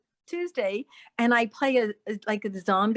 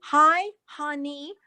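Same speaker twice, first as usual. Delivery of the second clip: put-on slow, higher greeting in a Chinese accent; imitated Chinese accent; 4 semitones higher, much slower than usual. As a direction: imitate halting Chinese-accented English, drawn out. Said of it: "He didn't speak English that much".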